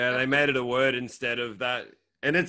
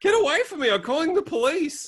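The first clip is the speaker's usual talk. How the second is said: very high, panicked mock cry; hammed-up alarm, voice shooting up; 14 semitones higher than usual. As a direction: play someone frightened off by a stranger. Acted panicked threat to call police.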